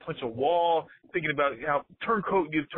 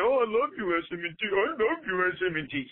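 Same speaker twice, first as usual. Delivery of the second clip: mocking fawning fan. Ranting fan mimicking a turncoat's gushing, mock adoration. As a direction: parody a gushing bandwagon fan. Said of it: "and you jump on the bandwagon and say".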